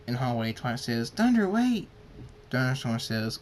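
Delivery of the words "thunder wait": high, loud urgent call; raised, high-pitched shout; calling after someone. Acted. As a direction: call out to stop them leaving. Calls after him in hallway.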